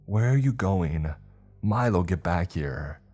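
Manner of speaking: calling after someone. Acted. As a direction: call him back as he runs off. Calling after fleeing Milo.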